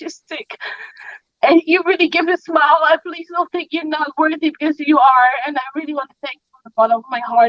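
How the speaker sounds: tearful, heartfelt, crying through the words. Thanking someone on a live video, crying a little while speaking. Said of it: "I'm sorry that I'm crying a little bit".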